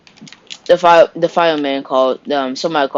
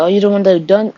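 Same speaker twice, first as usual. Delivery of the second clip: confronting shout; 7 semitones higher, 5 dB louder, faster than usual. Retold or imitated. Husband confronts killer.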